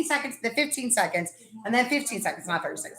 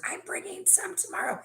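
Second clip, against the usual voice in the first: mock whisper; 5 semitones higher, 11 dB quieter than usual. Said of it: "And she whispers".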